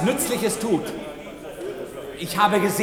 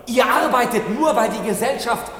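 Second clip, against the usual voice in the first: rousing shout; 3 semitones higher than usual. Acted. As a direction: whip up the crowd of workers. Agitator rousing workers in hall.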